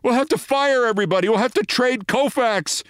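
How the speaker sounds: high-pitched panicky rant; terror turned to anger. A narrator's reading. Manager raging at his laughing colleague, high angry rant. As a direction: rail at him, voice pushed way up. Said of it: "Bavasi's terror turned to anger".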